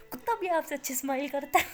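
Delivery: giggling as she insults; laughing tease. Acted. Rimsha teasing the uncle about his smile, laughing. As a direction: laugh through the jab.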